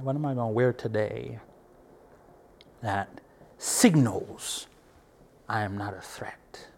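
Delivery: whispered, searching self-question; whispered thought. Real, not acted. Voicing the inner questions before going out, whispered.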